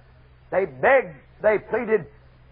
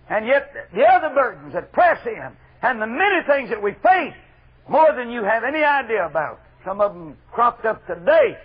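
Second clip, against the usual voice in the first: raised, emphatic pulpit voice; full-force preaching; 5 semitones higher, 6 dB louder than usual. Real, not acted. Preacher telling the church of pressing burdens, full-force preaching.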